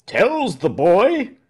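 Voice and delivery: high, drawn-out roar of approval; hearty roar. A narrator's reading. Smith praising Tell to the crowd, roaring. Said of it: "roared Ulrich the smith".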